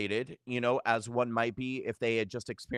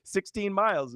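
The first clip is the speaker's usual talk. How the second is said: mom's repeated words, pitched much higher; imitating mom; 8 semitones higher than usual. Daughter imitates her mother after the stroke, voice pitched high. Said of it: "she, like, forty-five times".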